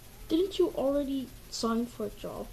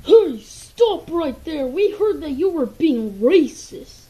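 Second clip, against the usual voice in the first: much louder, slow commanding yell; police shout; 3 semitones higher, 14 dB louder, slower than usual. Acted. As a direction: bellow it like a cop stopping a suspect. Cops arresting the duck.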